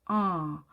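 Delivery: 아 rounded halfway toward 오; a drawn-out 아 between 오 and 아. Shown as a demonstration. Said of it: "오와 아의 중간 어디쯤 소리". ('아'를 오와 아의 중간 소리로)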